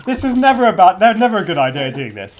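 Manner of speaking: talking through a mouthful; mouth full. Real, not acted. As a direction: speak round a bite of food. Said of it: "talking with your mouth full".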